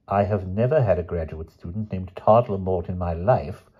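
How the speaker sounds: put-on thin, complaining old voice; querulous voice of an old friend; querulous old man. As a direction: whine it like a fretful old man. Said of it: "said Doctor Coote in a querulous voice".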